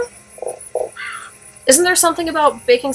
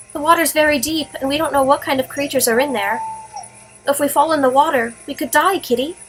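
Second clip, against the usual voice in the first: put-on girl scolding gently; 3 semitones higher than usual. Fran warning her cat on the water, lightly voiced girl. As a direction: set the cat straight kindly.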